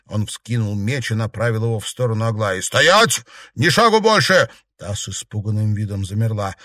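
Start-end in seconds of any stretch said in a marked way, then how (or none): 2.6-4.5 high, loud barked order; shouted command. Acted. Matvey halts the woman at swordpoint, shouting. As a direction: stop her dead with your voice.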